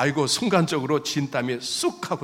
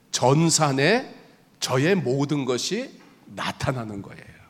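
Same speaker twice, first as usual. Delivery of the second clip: ordinary talk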